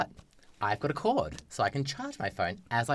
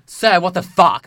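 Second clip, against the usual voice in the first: stewardess; 7 semitones higher, 12 dB louder than usual. Retold or imitated. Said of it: "comes past and is like".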